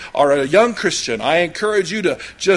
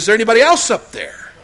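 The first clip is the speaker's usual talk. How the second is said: punchline call; 4 semitones higher, 4 dB louder, faster than usual. Retold or imitated. Punchline, man calls out.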